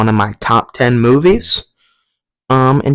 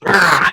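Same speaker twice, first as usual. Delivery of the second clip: imitated roar, a little higher; mock monster roar; 6 semitones higher than usual. Clown's shadow puppet turns into a T-Rex, mock roar. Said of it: "and he goes".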